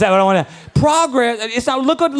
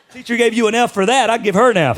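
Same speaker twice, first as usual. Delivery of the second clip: laughing; 3 semitones higher, 4 dB louder than usual. Real, not acted. Laughing at son's answer.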